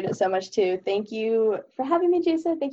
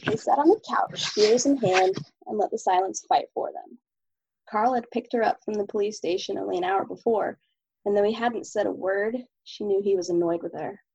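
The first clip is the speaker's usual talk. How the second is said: steady, even novel reading; story narration; 3 semitones lower than usual. Acted. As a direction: read the chapter aloud evenly. Reads chapter of own novel.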